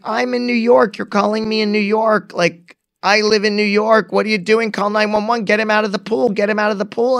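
high, frantic retold phone instructions; panic. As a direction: re-enact urgent exasperation down the phone. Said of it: "I understand the panic of that".

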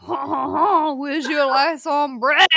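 loud, drawn-out mock French; slow, stereotypical French accent. Shown as a demonstration. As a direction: open with a hammy French chuckle.

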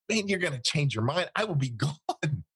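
high-pitched retold warning; urgent insistence. Interrogator warns prisoner he will be gone, urgent insistence. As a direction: press the point with mounting urgency.

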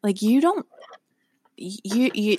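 mock-baffled denial, voice jumping up; retold disbelief. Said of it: "And I'm like".

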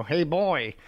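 high put-on Yorkie voice; dog voice. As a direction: pitch it up as the little dog. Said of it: "I go".

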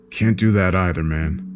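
usual speaking voice

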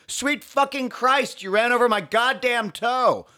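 high, slow pained shriek; mock scream. Pedestrian screaming at the cyclist, high pained shriek. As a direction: scream it like the toe is crushed. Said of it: "me screaming".

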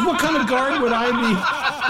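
high, drawn-out plea; whimpering protest. Acted. Guard answers the raging attacker, high mock-panicked protest. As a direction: plead in a high voice.

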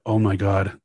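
a loud mock Long Island accent. Host tries a Long Island accent on the swindler. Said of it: "I'm gonna do an accent".

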